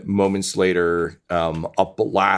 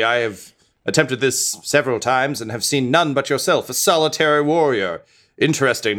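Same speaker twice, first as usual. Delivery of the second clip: raised, grand hero voice; a lightly voiced noble skeleton. Skeleton hero speaks in character.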